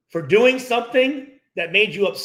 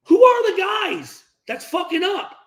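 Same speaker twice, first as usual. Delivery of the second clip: demanding shout; 10 semitones higher, 5 dB louder than usual. Retold or imitated. Demanding quote to Derek Carr.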